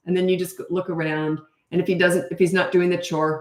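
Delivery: usual speaking voice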